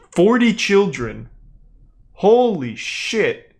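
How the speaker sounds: slow, drawn-out astonishment; slowly, taken aback; stunned disbelief. Real, not acted. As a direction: drag it out as the number sinks in. Stunned by headline he is reading.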